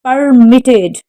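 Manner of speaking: Permitted, stressed on MIT; Permitted with the weight on its second syllable. Shown as a demonstration. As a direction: say Permitted as per-MIT-ted. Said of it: "The stress is on the second syllable".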